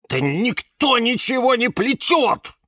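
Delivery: high-pitched irritated protest; almost angry. A narrator's reading. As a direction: snap back, nearly losing patience. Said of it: "почти разозлился Кирилл".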